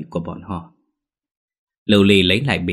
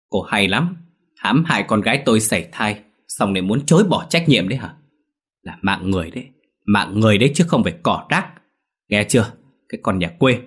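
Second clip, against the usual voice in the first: rapid, mildly raised scolding; mother-in-law cutting off Lưu Ly, mildly raised rant; angry tirade. Acted. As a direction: rattle it off before she can answer. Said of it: "nói một tràng".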